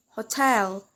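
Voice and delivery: "hotel" stressed on its last syllable; "hotel" as a careful end-stressed example. Shown as a demonstration. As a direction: hit the "tel" in "hotel". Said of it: "we stress the word in the last".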